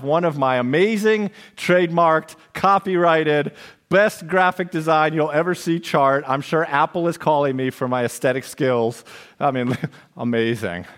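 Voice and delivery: mock-boastful, emphatic on the big claims; tongue-in-cheek bragging with a small laugh; sarcastic. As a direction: hype yourself up, not meaning a word. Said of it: "I'm being sarcastic".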